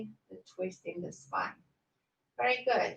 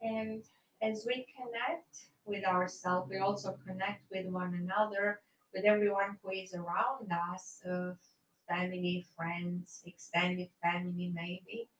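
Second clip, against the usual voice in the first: guided meditation; 4 dB quieter than usual. Acted. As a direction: ease them into rest gently. Guided relaxation at end of yoga.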